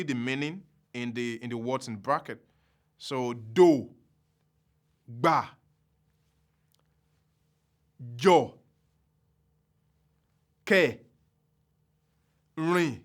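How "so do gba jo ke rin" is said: gba, jo, ke, rin each low and level, spaced apart; slow low tone drill. Shown as a demonstration. Teacher pronouncing Yoruba low tone words one by one. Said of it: "only going to pronounce them in Yoruba".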